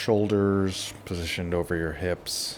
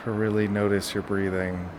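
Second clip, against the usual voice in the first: guided relaxation; 6 dB quieter than usual. Shown as a demonstration. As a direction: ease them through each breath, leaving long pauses. Leads a breathing relaxation.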